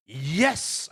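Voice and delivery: long, swooping triumphant yes; elated yes. Retold or imitated. Retelling the film boy's charge at a dragon, elated yes. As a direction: draw out a gleeful yes. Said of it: "then just goes".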